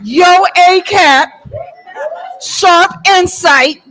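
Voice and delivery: slow drawn-out announcer call; hype announcer. Real, not acted. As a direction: stretch the name out like a ring announcer. MC hypes up the next speaker.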